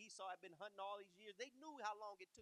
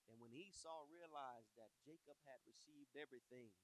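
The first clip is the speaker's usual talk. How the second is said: ordinary delivery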